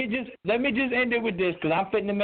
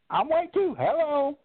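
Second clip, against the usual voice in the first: higher-pitched mock white-guy voice; hammed-up white voice; 4 semitones higher, slower than usual. Caller proving he can do white people talk, hammed-up and higher. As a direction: put on a higher white-person voice for show. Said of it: "I can do white people shit too".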